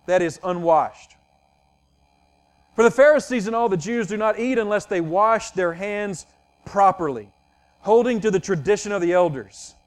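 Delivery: measured, solemn Bible reading; scripture reading. Acted. Pastor reads Mark seven aloud to his congregation, solemnly. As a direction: read the passage with weight and care.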